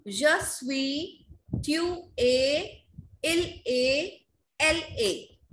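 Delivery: measured phrases with lifted endings, falling on the last; teacher's drill, each pair set apart; model for repetition. Shown as a demonstration. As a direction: say it for the class to repeat. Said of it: "everybody will speak after me".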